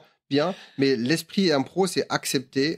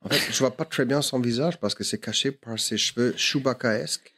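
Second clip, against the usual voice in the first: put-on French spoken lower with a loose American accent; 3 semitones lower than usual. Smitten American inner monologue, in a lower American accent. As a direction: drawl it like a lovestruck American. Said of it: "Ok, je fais un américain".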